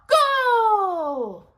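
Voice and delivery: high, loud shout; yelled start. Acted. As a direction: fire the starting call. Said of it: "Old Toucan yelled out".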